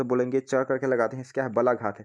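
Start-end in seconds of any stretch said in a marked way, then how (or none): 0.4-0.6 च pushed out with force; demonstrating a forcefully stressed च. Shown as a demonstration. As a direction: punch the sound च as a stress demo. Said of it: "बल देते हैं एकदम ज़्यादा".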